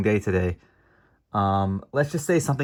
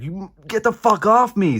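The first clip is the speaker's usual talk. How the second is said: much higher, louder, slow hammed-up yell; mock furious yell; 11 semitones higher, 4 dB louder than usual. Retold hero yelling after being suplexed, hammed-up yell. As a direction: scream it like a brawler being pinned.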